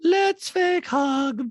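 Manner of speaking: high, loud, very slow detached voice; eerie monotone, every word dragged out; Diana. Retold or imitated. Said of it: "that's what even Diana says in a talking head".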